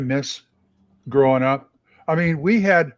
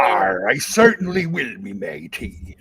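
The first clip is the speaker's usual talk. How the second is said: put-on gruff old fisherman; 4 semitones lower than usual. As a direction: growl like a salty old sailor. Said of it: "that's Old Man Grognard".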